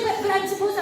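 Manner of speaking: high, whiny protest; whiny teen. Retold or imitated. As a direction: protest like a teenage girl.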